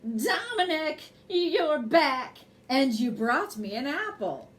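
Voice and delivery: put-on delighted old lady calling out a name; lightly voiced, pleased old lady. Old lady greets the moose.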